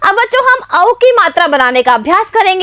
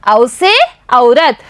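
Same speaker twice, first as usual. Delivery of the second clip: slow spelling out; 5 semitones lower, much slower than usual. Shown as a demonstration. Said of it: "teacher spells word slowly".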